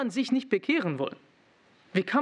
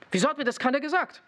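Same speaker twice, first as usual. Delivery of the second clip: regretful whine; 6 semitones higher, faster than usual. Retold or imitated. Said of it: "Georgi denkt".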